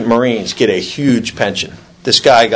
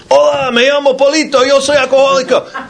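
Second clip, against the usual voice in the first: much higher, squeaky little voice for Polito; squeaky caller; 3 dB louder than usual. Retold or imitated. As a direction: pitch it way up like a tiny voice. AA members pass the phone.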